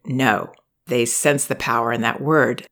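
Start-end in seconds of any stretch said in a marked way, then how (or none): 0.1-0.5 calm no with an edge. Shown as a demonstration. Parent showing a toddler a calm no with an edge. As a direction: say No calmly, but let it bite a little. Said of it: "Even if we say it very, very calmly, there's an edge to it".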